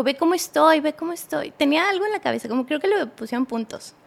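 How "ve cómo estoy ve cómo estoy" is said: higher-pitched urgent imitation; retold insistent reproach. Boyfriend shows her his injured head, insistently reproachful. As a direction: act out his aggrieved insistence.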